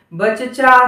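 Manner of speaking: बचचा with both च said in full, no half letter; wrong doubled cha. Shown as a demonstration. Teacher showing the wrong बचचा in full letters. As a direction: split बचचा into two full चा sounds. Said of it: "सचचा नहीं बोलना है".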